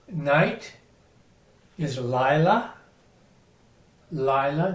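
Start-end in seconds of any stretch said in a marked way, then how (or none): 2.0-2.7 "lila" stressed on its first syllable. Shown as a demonstration. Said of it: "the accent's on the first syllable". 4.1-4.7 "lila" stressed on its first syllable. Shown as a demonstration. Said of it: "the accent's on the first syllable".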